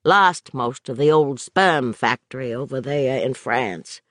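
a hint of a rough old vet; wistful old drunk, lightly done; lightly voiced old drunk. Gary's old voice, musing.

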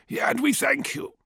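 high, thin elder's voice; old village elder. A narrator's reading. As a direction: voice the frail elder Tefra. Narrator voices elder Tefra.

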